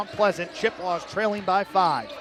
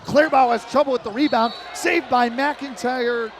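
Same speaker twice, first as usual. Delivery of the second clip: excited call; 3 semitones higher, 5 dB louder than usual. Real, not acted. Scramble for the rebound.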